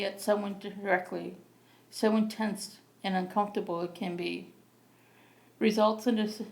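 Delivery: measured poetry recital with pauses between lines; open-mic poem read plainly and deliberately. Acted. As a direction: read your poem out phrase by phrase, evenly. Reads own poem aloud.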